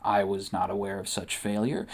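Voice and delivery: low, softened, self-assured reply; calm, confident. A narrator's reading. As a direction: answer with cool, quiet confidence. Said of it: "says with a calm and confident voice".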